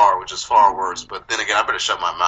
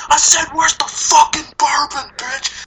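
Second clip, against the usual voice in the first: high, slow menacing Freddy yell; Freddy snarl; 5 dB louder, slower than usual. Retold or imitated. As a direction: growl it out like Freddy demanding bourbon. Freddy voice, movie clip retold.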